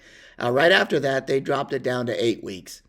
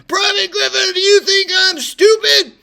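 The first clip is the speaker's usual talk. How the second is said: much higher, much louder mock screaming rage; furious drill sergeant; 10 dB louder than usual. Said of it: "And he said".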